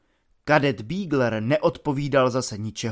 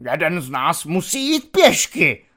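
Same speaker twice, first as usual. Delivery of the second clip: babbled; 3 dB louder than usual. Acted. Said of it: "zablábolil".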